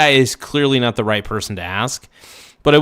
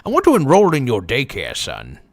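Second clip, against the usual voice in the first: put-on the kid line again but as a Southern guy; Southern accent; 3 dB louder than usual. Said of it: "why I sound like a Southern guy".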